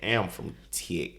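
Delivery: slow, hammed-up Texas drawl; Texas accent. Shown as a demonstration. Co-host retrying after a terrible attempt, in a fake Texas accent. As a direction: drag it out in a mock Texas accent. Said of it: "what are you saying from down south?".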